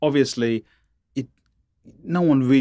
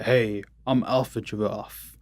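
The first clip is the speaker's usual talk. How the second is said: giraffe voice; slower than usual. Pretend. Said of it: "That's my giraffe voice".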